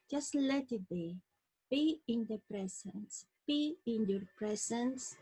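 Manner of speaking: unhurried meditation guide with long pauses; guided meditation. Acted. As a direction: lead listeners gently into relaxation, phrase by phrase.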